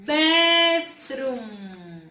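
"Bedroom" stretched into two long syllables; drill model. Shown as a demonstration. Teacher asking pupils again, drawn-out model. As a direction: hold the vowels of "Bedroom" for learners.

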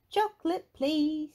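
high, loud eager request; high-voiced young customer; eager sheep character. A narrator's reading. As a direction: ask keenly in a little high voice. Susie Sheep places her order.

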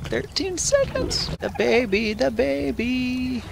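high squeaky cooing at the newborn; sing-song baby talk to a pet. Acted.

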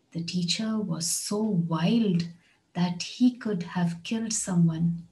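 slow, wild stressed and falling; slow repeat. Shown as a demonstration. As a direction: break it into two slow halves for learners. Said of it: "Listen to this one".

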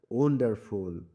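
ওয়ান্ডারফুল with weight on ওয়ান; stress on ওয়ান. Shown as a demonstration. Teacher modelling stressed syllables, ওয়ান stressed in ওয়ান্ডারফুল. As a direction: hit the opening ওয়ান of ওয়ান্ডারফুল. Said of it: "এই তিনটিকে জোর দিয়ে পড়তে হবে".

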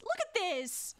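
indignant but playful demand; mock outrage. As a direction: point out the mess, playfully appalled. Mock telling-off, first take.

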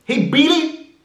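very high, fast falsetto; high squeaky voice. Shown as a demonstration. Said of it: "that doesn't sound like a hillbilly".

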